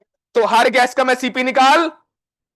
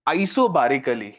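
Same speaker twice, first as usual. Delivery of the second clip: "isobarically" drawn out slowly, lower, falling at the end; slow dictation; 10 semitones lower, 4 dB quieter, much slower than usual. Shown as a demonstration. Teacher dictating the last word to students, slow and lower. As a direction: stretch out "isobarically" so they can write it. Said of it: "question लिखो".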